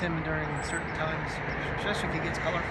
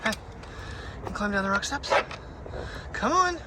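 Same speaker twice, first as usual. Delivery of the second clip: coaxing pet talk; 5 semitones higher than usual. Real, not acted. Coaxing dog down the rocks.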